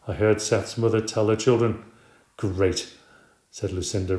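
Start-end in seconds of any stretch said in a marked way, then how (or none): 2.4-2.9 low, deadpan sarcastic great. Acted. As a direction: roll your eyes as you say it. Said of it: "rolling her eyes dramatically".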